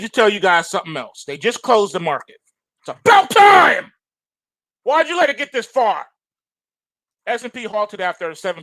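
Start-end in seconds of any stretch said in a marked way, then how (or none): 2.8-6.0 much higher and louder, slowed cry; exasperated outburst. Real, not acted. Host reacting to market halt, shouting much higher and louder. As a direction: throw the line up high like finally.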